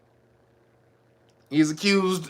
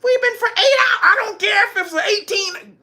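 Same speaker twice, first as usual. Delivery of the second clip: hammed-up shouted back and forth; 13 semitones higher than usual. Acted quarrel, woman and man.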